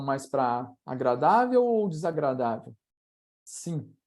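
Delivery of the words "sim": a different way to say yes. Shown as a demonstration. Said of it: "Repita, você pode repetir com vozes diferentes".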